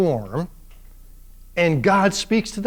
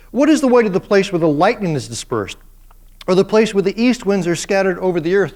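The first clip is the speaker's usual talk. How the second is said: God's challenge. Retold or imitated. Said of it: "dripping with sarcasm".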